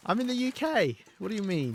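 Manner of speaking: high-pitched, laughing incredulity; amused disbelief. Real, not acted. Streamer to a viewer unsure where they live, amused disbelief.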